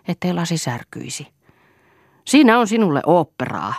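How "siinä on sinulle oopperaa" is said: higher, louder, heated outburst; angry shout. A narrator's reading. Eero after throwing water at Lea, shouting angrily. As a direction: fling it out as a furious cry. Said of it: "huusi hän".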